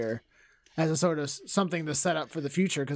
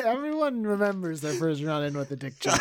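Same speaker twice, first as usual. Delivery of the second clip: laughing; 2 semitones higher than usual. Real, not acted. Joking about Dick Cheney.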